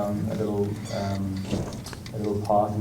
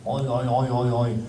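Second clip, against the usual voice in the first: imitating himself; 2 semitones higher than usual. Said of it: "it's you going".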